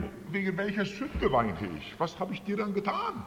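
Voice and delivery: pleading question to God, rising high without volume; retold anguished cry. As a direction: retell a desperate cry, restrained in loudness. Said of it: "Ich hab damals geschrien". (nacherzähltes, flehendes Schreien zu Gott)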